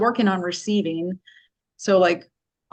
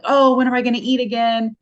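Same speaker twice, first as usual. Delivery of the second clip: higher, louder mock panic; mock freaking out; 6 semitones higher, 6 dB louder than usual. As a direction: act out a hammed-up fret over the next meal. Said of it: "freaking out".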